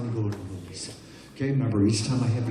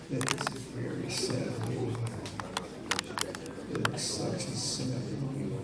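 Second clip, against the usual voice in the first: mock sad; 5 semitones lower, 9 dB quieter than usual. Hypnotist sets a sad mood for the saddest movie. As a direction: sound heartbroken about the movie.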